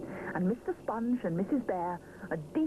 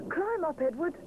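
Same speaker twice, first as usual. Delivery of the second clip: put-on young bear voice; 10 semitones higher, 3 dB louder than usual. A narrator's reading. Rupert voiced by narrator.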